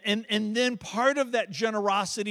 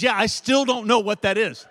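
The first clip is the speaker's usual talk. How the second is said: amused wife; 4 semitones higher, 8 dB louder than usual. Retold or imitated. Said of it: "And she says".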